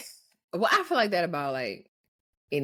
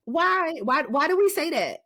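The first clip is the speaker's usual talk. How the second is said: high, loud bafflement; baffled; 4 semitones higher, 4 dB louder than usual. Real, not acted. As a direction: ask it like you can't believe it. Baffled by a lyric.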